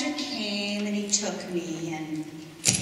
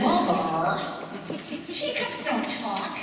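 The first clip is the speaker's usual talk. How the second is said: put-on teenage eye roll; slower than usual. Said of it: "I gave a teenage eye roll".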